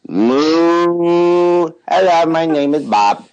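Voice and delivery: drawn-out moo in an Indian accent; Indian-accented cow. Shown as a demonstration. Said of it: "have an Indian accent".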